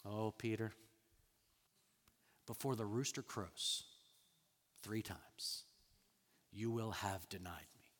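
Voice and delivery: low, very soft, pausing prediction; sorrowful hush. Retold or imitated. Jesus telling Peter he will deny him, hushed and grave. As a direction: drop low and quiet, leaving long pauses. Jesus sadly foretelling the denial.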